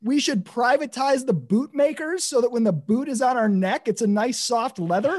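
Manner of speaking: high, laughing outraged rant; mock fury with laughter breaking through; venting at the think tank, high and laughing; exasperated rant. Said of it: "You're like".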